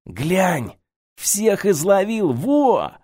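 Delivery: high, gleeful showing-off; proud as a kid with a jar of bugs; excited boast. A narrator's reading. Alexey proudly shows his cockroaches. (Одеялкин хвастается банкой тараканов, восторженно)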